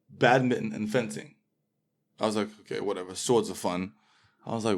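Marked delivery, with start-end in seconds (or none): 2.6-3.9 offhand shrug. Retold or imitated. Indifferent choice of school activity.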